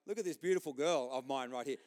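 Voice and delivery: a light touch of a proud protective father; proud dad. Retold or imitated. Dad showing off his daughter, lightly proud. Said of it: "it's more like this".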